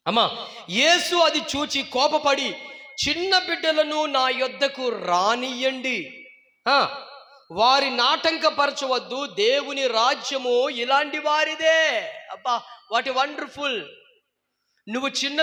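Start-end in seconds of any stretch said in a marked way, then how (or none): 3.1-12.0 slow, solemn reading of the verse; slow scripture reading. Acted. Preacher reads Jesus' words to the congregation, slow and solemn. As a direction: read each word out slowly, like scripture.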